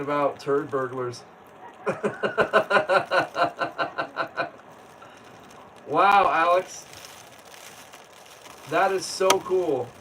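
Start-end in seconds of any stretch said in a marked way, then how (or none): 1.6-4.5 long falling laugh; real laughter. Real, not acted. Laughing after joking about a video strike. 5.9-9.9 loud, excited wow. Real, not acted. Reacting excitedly to a viewer in New Zealand.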